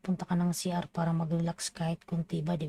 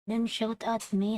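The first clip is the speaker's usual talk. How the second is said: mock shout back; 4 semitones higher than usual. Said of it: "nagsigawan kami".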